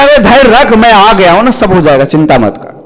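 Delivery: calm him like a kind guru; reassuring saint. Acted. Saint comforts the crying friend, reassuring.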